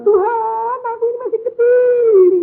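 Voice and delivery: put-on high, whimpering girl praying; mock crying prayer. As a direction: whine it high like a tearful girl. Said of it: "Ya nangis". (gadis menangis berdoa kepada Tuhan, suara tinggi merengek)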